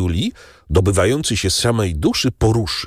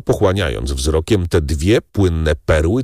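usual speaking voice

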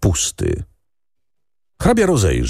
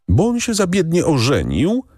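sudden heated outburst, higher pitch; outburst of passion; 11 semitones higher than usual. A narrator's reading. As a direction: blurt it out in a fresh burst of anger. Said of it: "wybuchnęła z nową pasją". (wybuch z nową pasją, wyżej)

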